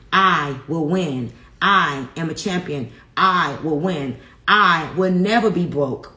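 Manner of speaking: firm, steady declarations, one per line; affirmation recital. Real, not acted. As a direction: declare each one like a vow you believe.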